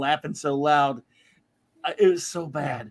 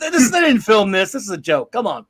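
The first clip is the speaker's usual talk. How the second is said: outraged disbelief; 2 semitones higher, 7 dB louder than usual. Retold or imitated.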